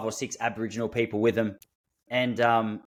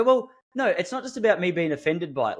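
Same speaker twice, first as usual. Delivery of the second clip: protesting; 6 semitones higher than usual. Retold or imitated. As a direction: push back as in a retold argument. Retold argument with partner.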